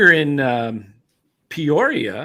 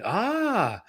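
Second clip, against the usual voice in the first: softer, higher voice of hushed hope; imitated hopeful anticipation; 5 semitones higher, 5 dB quieter, much slower than usual. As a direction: play fans daring to hope, softly. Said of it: "on the edge of their seat thinking".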